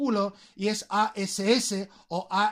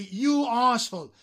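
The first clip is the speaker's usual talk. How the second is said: "You asshole" with a leaning, falling "You"; emphatic YOU; 3 semitones higher than usual. Shown as a demonstration. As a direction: lean on "You" as an insult. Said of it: "para ponerlo en énfasis". ("You asshole" recalcando el "You")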